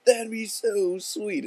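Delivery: slow, rising gush of mock awe; hammed-up overjoyed buddy; thrilled. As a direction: stretch it out like it's the best thing ever. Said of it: "It's like the best thing ever to him".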